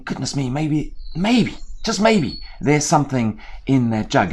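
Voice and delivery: a bird daring to hope; hopeful crow. Acted.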